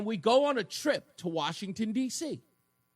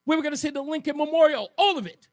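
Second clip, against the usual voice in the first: a schoolkid on a bus getting more and more thrilled; kid's excitement; 5 semitones higher than usual. Retold or imitated. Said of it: "I was on that bus saying".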